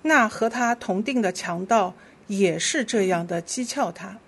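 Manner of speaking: measured, clearly phrased Bible reading; scripture reading. Real, not acted. Leader reads Scripture to the congregation, measured scripture reading. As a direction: lead the congregation through the verse.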